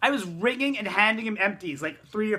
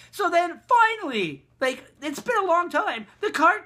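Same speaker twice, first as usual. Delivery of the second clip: exasperated relief; 9 semitones higher, 5 dB louder than usual. Retold or imitated. Long wait for cart ends.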